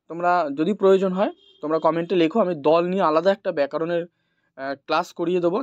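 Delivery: ordinary delivery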